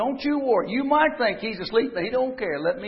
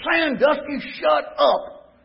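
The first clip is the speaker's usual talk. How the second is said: gruff retort; 5 semitones higher, slower than usual. Retold or imitated. Angry brother snaps back.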